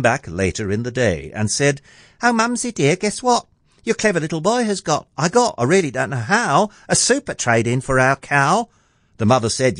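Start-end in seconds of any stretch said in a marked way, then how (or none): 2.2-8.7 put-on high, chirpy boy breaking big news; eager boy's voice. Jack boasting to his mother about trading the cow, eager boy's voice. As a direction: pitch it high as a pleased little lad.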